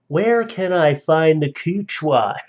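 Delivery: slow, lightly put-on Southern drawl; loud Southern accent. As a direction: read it in a slightly hammy Southern accent, slowed down. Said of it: "One said in a loud Southern, uh, accent".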